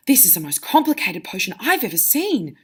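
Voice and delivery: a touch of wonder, lively swoops in pitch; impressed, leaning on the key words; mildly excited. Shown as a demonstration. Teacher reading Hermione finding the page, mildly excited. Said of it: "said Hermione excitedly".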